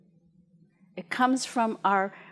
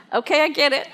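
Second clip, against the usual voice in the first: laughing; 4 semitones higher, 5 dB louder, faster than usual. Retold or imitated. Laughing reply to old man.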